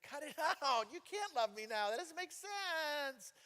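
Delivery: high, pleading protest; protesting to the Lord. Retold or imitated. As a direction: push back, flustered. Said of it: "it's like".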